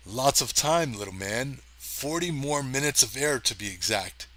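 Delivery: weak attempt at an Irish accent. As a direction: try an Irish lilt, loosely. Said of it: "I know this is not an Irish accent".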